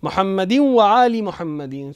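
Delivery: slow "آل" as "aali" with a full i; deliberate Arabic i endings on "آل" and "محمدین"; Arab zer pronunciation. Shown as a demonstration. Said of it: "وہ آلی کہے گا".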